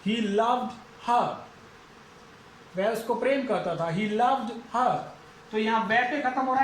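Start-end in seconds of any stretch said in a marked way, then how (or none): 0.0-1.2 slow demo. Shown as a demonstration. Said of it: "अब यहां पे इसको बोलेंगे loved".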